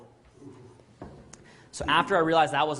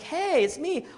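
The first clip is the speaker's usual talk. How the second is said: put-on high, light girl's voice; mimicking the girl calling him; girl on the phone; 14 semitones higher, 3 dB louder, slower than usual.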